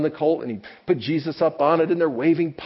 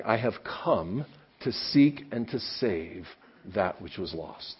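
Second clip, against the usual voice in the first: solemn quiet quote; 7 semitones lower, 7 dB quieter, slower than usual. Acted. Solemn quoting of Jesus.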